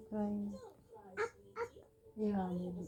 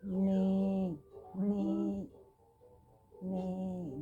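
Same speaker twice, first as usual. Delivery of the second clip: drawn-out, simple imitation neighs; horse neighing; much slower than usual. Shown as a demonstration. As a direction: playfully imitate a horse for a child. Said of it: "That's horse".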